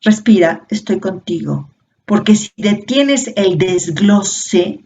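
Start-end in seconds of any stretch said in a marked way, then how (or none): 0.0-1.7 reassuring. Shown as a demonstration. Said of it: "lo que le tienes que decir es".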